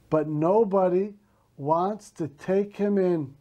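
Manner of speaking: put-on slow, deliberate read-aloud for young learners; clear, paced reading to children; slow story reading. Shown as a demonstration. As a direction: read each phrase slowly so the class can follow. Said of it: "I will read slowly".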